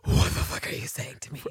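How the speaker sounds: whispered exhale of disbelief; breathy disbelief. Retold or imitated. Imitating Ann Walker's shock at the news, breathy whisper. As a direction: let it all out on one breath, no voice. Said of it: "that breathy, "I can't believe it".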